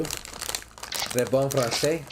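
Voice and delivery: drawn-out schoolbook French; slow French accent. Pretend. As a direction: stretch it in a hammy French accent. Drawn-out mock French praise.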